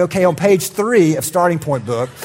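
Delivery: awkward brush-off. Retold or imitated. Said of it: "turn my back and go".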